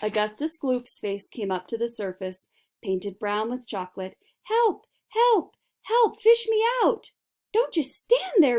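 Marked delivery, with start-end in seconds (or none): 4.4-7.1 high, loud desperate calls; cries for help. A narrator's reading. Boy in the chocolate river calling for help. 7.5-8.6 high, loud furious scream. A narrator's reading. Wife screaming at her husband to act, furious. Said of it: "Missus Gloop screamed at Mister Gloop".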